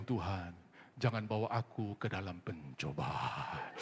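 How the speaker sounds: low, soft, slow pious murmur; mock prayer. Sleepy passenger praying beside the grandma, soft mock piety. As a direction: pray it under your breath in mock piety. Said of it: "dia bilang".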